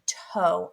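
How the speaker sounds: "toe" as a separate syllable with a long O; "toe" sounded out on its own; broken into syllables. Shown as a demonstration. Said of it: "I hear the O again".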